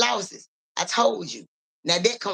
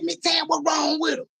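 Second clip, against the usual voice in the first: raised higher call across the room; 6 semitones higher than usual. Retold or imitated. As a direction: call out to her over the noise. Calling out to Miss Tam.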